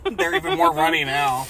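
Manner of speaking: lightly voiced mocking heroine, half laughing; lightly hammed-up mock reading. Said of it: "she's like".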